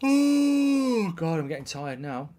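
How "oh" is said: long high groan of tiredness; drawn-out weary oh; high yawning oh. Real, not acted. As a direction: yawn it out high. Tired exclamation.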